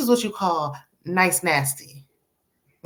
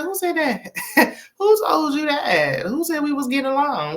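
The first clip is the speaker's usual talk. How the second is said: mock indignant disbelief; 7 semitones higher than usual. Ladies deny getting along, reenacted.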